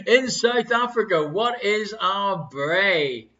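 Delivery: put-on slow, drawn-out South African accent. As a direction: read it in a lightly done South African accent. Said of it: "her amazing South African accent".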